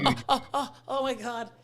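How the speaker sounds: high, soft mock groans; acted-out ouch of stiff muscles; sore groaning. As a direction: imitate aching with every move. Imitates sore groaning getting into car.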